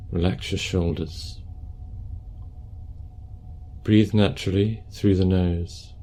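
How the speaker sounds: calm, unhurried meditation guidance; guided meditation. Acted. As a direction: guide them gently through posture and breath, leaving space.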